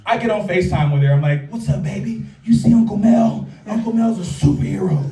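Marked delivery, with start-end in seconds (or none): 1.5-5.0 a light Hulkster hype, not full; Hulk Hogan voice. Retold or imitated. Uncle on FaceTime with goddaughter, mild Hulk Hogan voice. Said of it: "Giving her my best fucking Hulkster".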